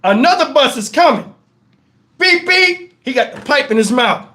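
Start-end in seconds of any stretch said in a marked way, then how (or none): 2.2-2.9 high "beep, beep"; two quick vocal toots; imitated horn. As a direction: honk like a bus horn. Imitated horn of coming bus.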